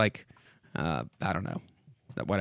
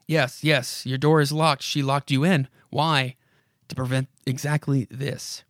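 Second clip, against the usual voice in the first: dramatic comic-book narrator addressing a character; story narration. Acted. Narrator urges Mister Lockwood to look around, dramatic narration. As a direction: read it aloud with measured urgency.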